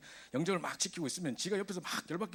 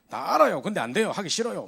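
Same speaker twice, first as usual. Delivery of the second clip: high, loud sulky whine of a student who knows but won't; mock the teen who knows the answer but won't act; whiny stubborn student; 6 semitones higher, 10 dB louder than usual. Pastor mimics his lazy student, loud and sulky. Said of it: "막 이럽니다".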